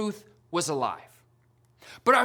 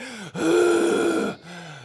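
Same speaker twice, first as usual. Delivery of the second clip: relieved gasp; 4 semitones higher than usual. Retold or imitated. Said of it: "And I was like".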